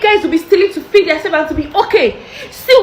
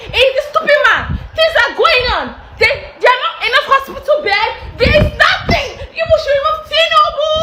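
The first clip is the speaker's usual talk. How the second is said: higher, heated outburst at the government; angry rant; 6 semitones higher than usual. Real, not acted. Vlogger venting at the government, angry raised voice. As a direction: let the anger spill over, pitch climbing. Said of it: "very angry face because I am angry".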